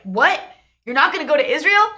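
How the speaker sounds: incredulous retold question; mock horrified. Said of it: "like, horrified".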